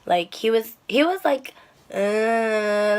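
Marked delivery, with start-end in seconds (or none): 1.9-3.0 drawn-out unintelligible "uhh"; imitated sleepy mumble. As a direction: mimic someone mumbling in his sleep. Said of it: "I didn't understand anything he said".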